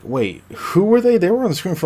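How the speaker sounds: high, puzzled questioning; exaggerated bafflement, voice jumping up; mock confused viewer. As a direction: imitate a viewer who has lost track. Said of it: "and it's like".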